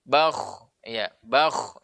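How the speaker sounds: BAKH ending in a long airy throat rasp; flowing breath. Shown as a demonstration. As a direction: let air flow on through the KH of BAKH. (bakh dengan hams, napas mengalir)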